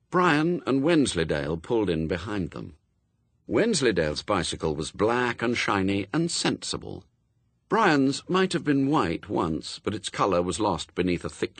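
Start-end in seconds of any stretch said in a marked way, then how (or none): none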